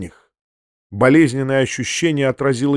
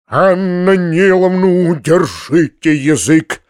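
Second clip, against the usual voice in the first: louder, slow sharp rebuke; sharp outcry; 4 semitones higher, 4 dB louder, slower than usual. A narrator's reading. Uncle silences the companion, loud slow rebuke. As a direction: cut her off sharply. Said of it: "вскричал дядя".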